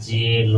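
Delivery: ᱡᱮᱞ drawn out as "jeel"; pronunciation demo. Shown as a demonstration. Teacher showing learners the blended letters, ᱡᱮᱞ as slow "jeel". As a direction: say ᱡᱮᱞ slowly, holding the e into l. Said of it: "ᱩᱪᱪᱟᱨᱚᱱᱚᱜ ᱠᱟᱱᱟ".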